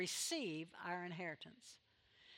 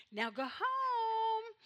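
high, slow mock lady telling the dog off; lady's sharper go-home; 11 semitones higher, much slower than usual. Retelling the bus lady ordering her little dog home, high and slow. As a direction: stretch it out high like a fussy lady. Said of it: "and she said".

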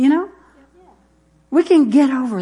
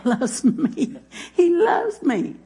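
laughing; 7 semitones higher, 3 dB quieter, much slower than usual. Real, not acted. Laughing at his own boast.

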